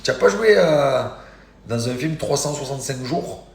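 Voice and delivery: excited question, high and loud at first; imitating an over-eager stranger; retold crazed fan. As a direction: blurt it like a starstruck fan. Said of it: "il était comme un fou".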